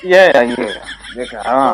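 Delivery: talking through laughter; laughing. Acted. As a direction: laugh while speaking. Laughing over the buffalo.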